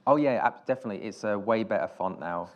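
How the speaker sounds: dry mock-enthusiastic sarcasm; British sarcasm. Director retelling his sarcastic reply to the festival head, dry sarcasm. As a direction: fake agreement, tongue in cheek. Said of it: "British sarcasm".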